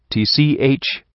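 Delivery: sharp tongue click, brushing it off; a short scornful tch, cutting him off; dismissive tch. A narrator's reading. Host dismissing Vanity's words with a tch. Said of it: "gave a dismissive".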